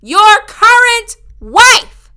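loud, slow, high mock sneer; sarcastic retort. Telling the liar off about his secret wife, slow and sarcastic. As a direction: drag it out, dripping sarcasm. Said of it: "So I'm like".

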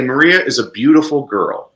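"beautiful" carries the emphasis of the statement; English statement with "beautiful" stressed. Shown as a demonstration. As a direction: lean on the adjective "beautiful". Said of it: "the emphasis is on the adjective".

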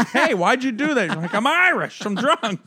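loud, high hammed-up whine; exaggerated high-pitched drunken protest; mock drunk woman. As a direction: parody an indignant drunk, loudly. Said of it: "Anthony was like".

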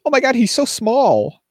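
high breathless mock fan squeal; mock gushing moviegoer. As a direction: gush like a starstruck fan. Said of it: "they're like".

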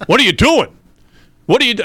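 high, loud mock yell; retold chef yelling in disbelief; exasperated chef yell. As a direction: bark it like a boss catching a rookie.

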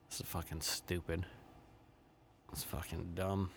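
breathy whispered disgust under the breath; whispered aside. Real, not acted. Fed up with the news, whispering it to himself.

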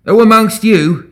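loud, high orator's challenge; slow, ringing public demand. A narrator's reading. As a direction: throw the question out to a whole crowd. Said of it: "he demanded".

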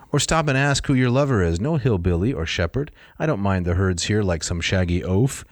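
lively read-aloud of a wooing speech; reading a poem aloud. Acted. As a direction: coax her through the lines. Reads Apollo's speech aloud.

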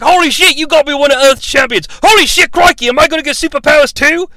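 high, loud hammed-up astonishment; mock amazed excitement. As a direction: exclaim it like an overexcited loudmouth. Acts Kano's amazed reaction.

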